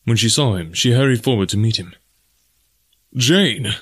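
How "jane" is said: a hint of a joyful call; mild cry. Clayton greeting Jane, a mild glad cry. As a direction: lightly cry her name. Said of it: "he cried".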